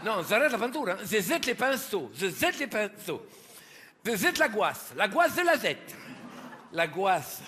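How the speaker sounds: a hint of Italian painter; Italian accent. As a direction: toss out the brushes in a hammed Italian accent. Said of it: "c'est un italien".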